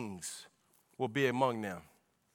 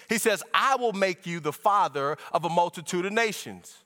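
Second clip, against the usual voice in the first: driving, raised preaching voice; fervent preaching; 6 semitones higher, 4 dB louder than usual. Acted. Preacher unfolding scripture to church, fervent preaching. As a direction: preach it with steady momentum. Preacher expounds the covenant passage.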